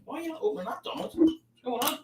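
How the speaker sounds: high squeaky voice for the bottle opener; high-pitched put-on puppet voice. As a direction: pipe it up like a silly toy. Voicing a Trump bottle opener.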